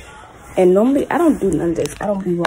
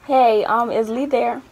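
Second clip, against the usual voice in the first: put-on white girl voice; 3 semitones higher, 4 dB louder, slower than usual. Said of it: "Gotta put on my white girl voice".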